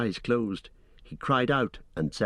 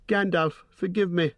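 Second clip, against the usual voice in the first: frightened plea; 9 semitones higher than usual. Acted. Frightened hobbit pleading.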